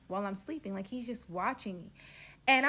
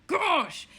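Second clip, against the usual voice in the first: exasperated gosh; 8 semitones higher, 8 dB louder than usual. Retold or imitated. Swooning over the robber.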